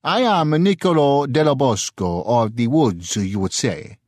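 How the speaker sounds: lightly voiced Italian merchant; proud introduction. A narrator's reading. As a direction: puff up as you give your name.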